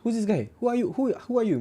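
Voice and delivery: high, startled who are you; surprised who. Real, not acted. Streamer baffled by a viewer's unknown name, high surprised. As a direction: jump up in pitch, baffled.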